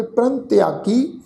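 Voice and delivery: ਪ੍ਰੰਗ ਤਿਆਗੀ with a nasal in ਪ੍ਰੰਗ; pronunciation demo. Shown as a demonstration. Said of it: "ਇਸ ਦਾ ਉਚਾਰਨ ਕਰਾਂਗੇ".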